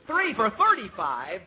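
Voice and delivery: slow, rising disbelief; surprised repeat. Real, not acted. Repeating the price back in slow astonished disbelief. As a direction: drag it out in disbelief.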